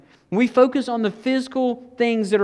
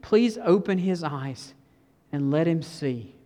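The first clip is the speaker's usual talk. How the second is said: prayer; 3 semitones lower, slower than usual. Acted. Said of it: "a very short but a very powerful prayer".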